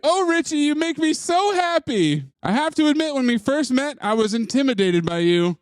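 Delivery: high breathy falsetto woman; mock woman voice. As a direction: play the smitten girlfriend, way up high. Acting out woman's dialogue in recap.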